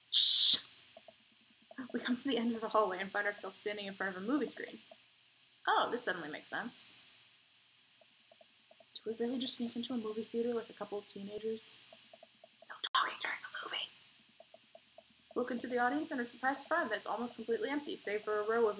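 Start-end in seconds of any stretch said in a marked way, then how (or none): 0.1-0.6 harsh, loud unvoiced shush. 12.7-13.9 unvoiced theater whisper.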